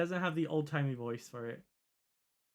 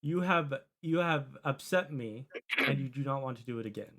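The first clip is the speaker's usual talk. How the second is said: stern warning look; 4 dB louder than usual. Acted. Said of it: "she gives, like, the".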